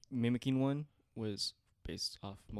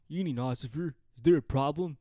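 stoner voice; 4 dB louder than usual. Retold or imitated. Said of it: "That's how I got my stoner voice".

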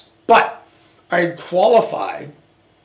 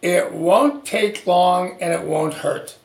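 lightly voiced reassuring doctor, drawn out; deliberately slow mock reassurance; slow soothing doctor line; slower than usual. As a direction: say it slow and soothing like a doctor who always says it. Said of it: "She says".

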